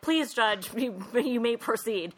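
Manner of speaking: grandma graciously letting the judge start; Grandma Sandy. Retold or imitated. Grandma Sandy granting permission.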